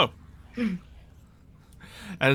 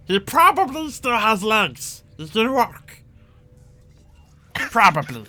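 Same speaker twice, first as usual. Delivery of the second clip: goblin chief; 4 semitones higher than usual. Acted. Goblin chief pleads with Jugs not to crush Tommy, fretful.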